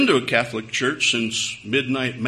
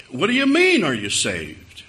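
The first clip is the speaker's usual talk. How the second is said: baffled question; 2 semitones higher, 4 dB louder than usual. Retold or imitated. Baffled man asks back.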